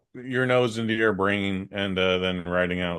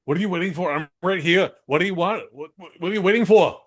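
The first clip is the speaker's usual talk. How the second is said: taunting movie villain; 9 semitones higher, 5 dB louder than usual. Acted.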